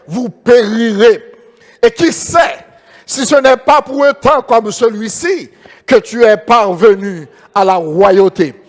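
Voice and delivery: slow, solemn Bible reading; preacher reading Esther to the congregation, slow and solemn; scripture reading. Acted. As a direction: read each word of the verse slowly and gravely. Reads scripture aloud.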